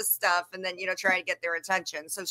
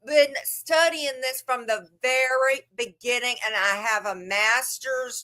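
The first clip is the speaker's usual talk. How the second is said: mocking Brie's rant; 3 semitones higher, slower than usual.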